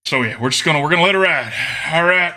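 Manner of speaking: put-on Southern-style accent; put-on game accent. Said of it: "I'm still doing the accent".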